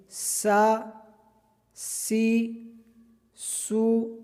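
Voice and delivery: سا with a thin whistling hiss, kept light; whistling sin. Shown as a demonstration. Teacher drills whistling سین, light hiss. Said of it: "سین میں سیٹی کی طرح آواز نکالیں گے".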